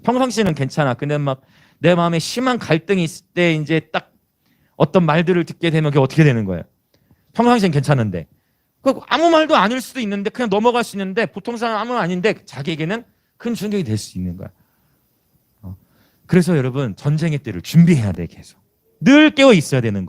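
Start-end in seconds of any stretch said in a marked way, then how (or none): none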